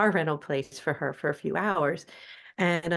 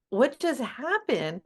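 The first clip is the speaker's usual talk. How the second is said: bewildered; 6 semitones higher, slower than usual. Retold or imitated. Puzzled over the swapped car.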